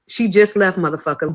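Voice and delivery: loud, heated retelling of a telling-off; retold cursing out. Mother on the phone to restaurant staff, retold angry challenge. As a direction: tear into them, speeding up on the question. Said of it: "cursed they asses out".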